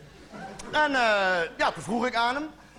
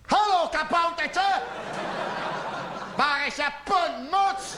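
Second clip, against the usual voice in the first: put-on high, slow, sing-song as if to a small child; talking to a little gnome; 5 semitones higher, slower than usual. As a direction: coo it down at a tiny creature. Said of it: "En toen zei ik zo". (hoog en langzaam, als tegen een kleuter)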